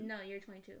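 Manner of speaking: whispered correction; wife whispering a correction to her husband; whispered aside. Real, not acted. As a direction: whisper it to him. Quiet aside about age.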